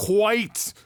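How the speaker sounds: "white" with a long, exaggerated H blown before the W; emphasis on the H. Shown as a demonstration. Host showing off his joke pronunciation, exaggerated H in "white". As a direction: overdo the H in "white", high, as "hhhwite". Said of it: "the emphasis on that H in there".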